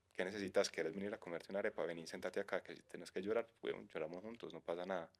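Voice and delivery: a quiet, tender invitation to come cry together; imitating a caring friend. Friend welcoming a struggling friend home, softly.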